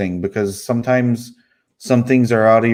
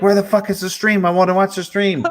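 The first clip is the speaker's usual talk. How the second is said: mock high, demanding yell; 9 semitones higher than usual. Retelling how mom yelled about the missing stream: imitating mom yelling. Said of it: "She was yelling at me".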